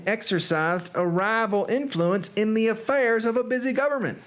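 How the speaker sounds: Southern gothic storyteller; Southern accent. Pretend. Reader telling of two feuding noble families, Southern accent. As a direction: narrate grandly in a put-on Southern accent. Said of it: "Edgar Allan Poe in a Southern accent".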